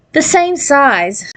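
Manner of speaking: slow, high, marveling repeat; amused realization. A narrator's reading. Girl catching her own slip, slow amused surprise. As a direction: savor the irony, drawn out. Narrator repeats thought in wonder.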